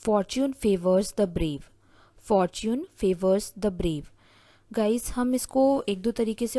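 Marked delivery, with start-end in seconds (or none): 0.1-1.6 very slow and deliberate, word by word; slow dictation. Shown as a demonstration. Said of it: "जिसे हम English में बोलेंगे". 2.3-4.0 very slow and deliberate, word by word; slow dictation. Shown as a demonstration. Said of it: "जिसे हम English में बोलेंगे".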